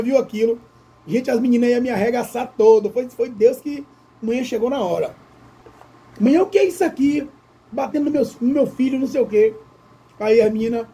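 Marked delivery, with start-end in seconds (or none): 6.2-9.5 indignant mother. Retold or imitated. Mother scolds the girls, retold.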